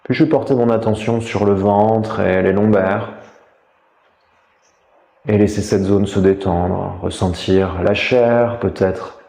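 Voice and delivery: calm, measured meditation voice with long pauses; guided meditation. Real, not acted. Teacher guiding listeners lying down through a body scan, meditative. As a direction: guide them inward, leaving space between phrases.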